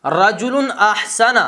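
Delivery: رجل احسن drawn out slowly, the hamza of احسن sounded clearly; slow careful Arabic. Shown as a demonstration. Teacher showing students the hamza being pronounced, slow and deliberate. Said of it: "کلام میں گر نہیں رہا".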